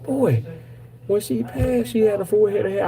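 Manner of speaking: lightly voiced incredulous sisters; mock sisters' voice. Sisters telling him their mom had hair, high mock voice.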